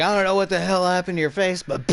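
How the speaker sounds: loud, high mock rant; angry cop. Cop to Ass Face just before the shot, acted angry rant. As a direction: imitate a cop ranting at full volume.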